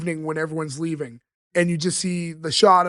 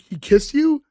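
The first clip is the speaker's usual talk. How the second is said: surprised Fran; 9 semitones higher, 4 dB louder, slower than usual. Retold or imitated. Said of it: "Fran's like".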